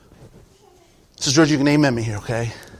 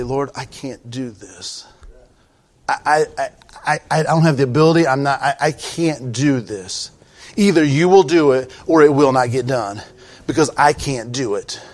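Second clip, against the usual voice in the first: humble confession. Retold or imitated. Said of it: "I get up behind the pulpit and I say".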